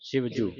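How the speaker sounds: ਸਿਵਜੂ with a plain initial s; clear s sound. Shown as a demonstration. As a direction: say ਸਿਵਜੂ with s, never sh. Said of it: "ਸੱਸੇ ਦੀ ਆਵਾਜ਼ ਉਚਾਰਨ ਹੋਵੇ". (ਸਿਵਜੂ ਸੱਸੇ ਦੀ ਆਵਾਜ਼ ਨਾਲ)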